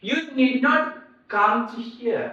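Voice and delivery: annoyed command. Shown as a demonstration. Teacher acts out annoyed command.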